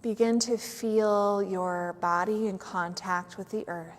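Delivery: unhurried yoga nidra guidance with long pauses; measured meditation voice, letting each phrase settle; guided meditation. Real, not acted. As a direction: guide them gently into stillness.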